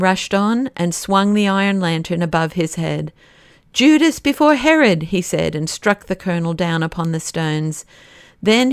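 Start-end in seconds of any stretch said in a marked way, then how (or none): 3.7-5.0 high, loud and fierce; a blow in words; Syme's furious battle cry, pitched high. A narrator's reading. Syme strikes the colonel.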